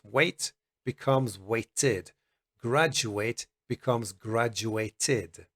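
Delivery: slow, clear id endings; slow demo. Shown as a demonstration. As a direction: stretch out waited and graduated. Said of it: "when E D sounds like id".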